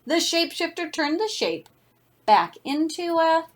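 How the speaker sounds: put-on lively read-aloud voice for children; story narration. A narrator's reading. Reads picture book to class.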